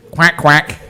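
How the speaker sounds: half-hearted duck imitation; lightly voiced quacks; a hint of a duck; not very good duck. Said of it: "That's not very good duck".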